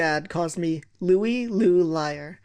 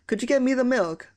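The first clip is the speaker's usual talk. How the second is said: dad's request; 6 semitones higher than usual. Retold or imitated. Dad asks for milk.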